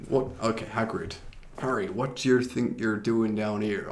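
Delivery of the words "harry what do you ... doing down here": lightly attempted film-character accent; a hint of a badly faked rustic accent; half-hearted go at a character accent; Hagrid's accent. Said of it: "I can't do Hagrid's voice".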